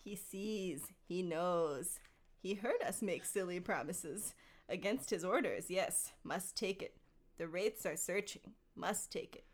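a hint of scheming Gollum, theatrical; understated stagey creature voice; lightly voiced theatrical Gollum. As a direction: read it as a mildly theatrical Gollum. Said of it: "a theatrical voice".

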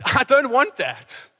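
a light, lifted voice of God; God speaking. Acted. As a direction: gently urge them to have fun. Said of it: "God's saying".

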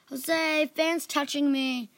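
put-on telling on a friend like a small child; like a two-year-old. A narrator's reading. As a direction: tattle like a whining toddler. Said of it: "sounding like a two-year-old".

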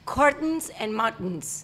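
"Curtains and mountains" very slowly, Ts swallowed; learner's slow, careful "Curtains and mountains"; swallowed syllables. Shown as a demonstration. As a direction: copy "Curtains and mountains" slowly, eating the endings. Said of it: "te comes un pedazo de la palabra".

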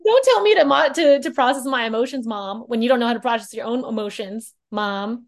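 fading sass aimed at mom; sassy kid. Acted. Kid talking back to mom, sass fading.

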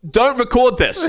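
high, slow, laughing plea; mock pleading with a recorded line, high and slow. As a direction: pitch up and plead through a laugh. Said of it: "I always say".

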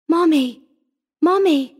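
put-on high, urgent child's call; screamed plea. A narrator's reading. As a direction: cry out for mother like a scared girl. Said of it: "the whisper fairly screamed".

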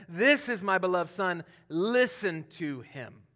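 fuller, proclaiming, with a slow listen to him; spoken to the disciples. Retold or imitated. God addressing the disciples from the cloud, proclaiming. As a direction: announce it to the whole group. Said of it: "he's talking to the disciples".

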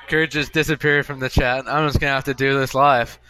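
normal talking voice

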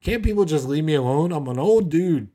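Daniel whining he's too old, rising to a mock outburst; grumpy old man. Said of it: "Daniel was probably like".

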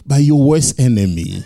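amused fatherly reply; laughing God voice. Pretend. Preacher voicing God answering Jesus, laughing.

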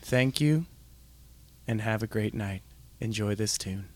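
low, soft radio sign-off; late-night DJ. Pretend. Thanking listeners before the song plays, late-night DJ voice. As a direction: sink low and hushed, pausing between phrases. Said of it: "I became the character".

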